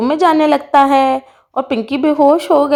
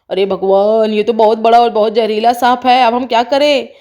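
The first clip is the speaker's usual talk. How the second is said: lightly voiced anxious papa; worried father; 3 semitones lower than usual. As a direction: lower man's voice, mildly alarmed. Father sees the snake.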